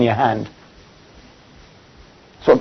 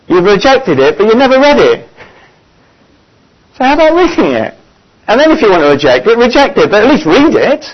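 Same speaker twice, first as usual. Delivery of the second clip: rising insistence; 4 semitones higher than usual. Retold or imitated. Retold urging of sick friend.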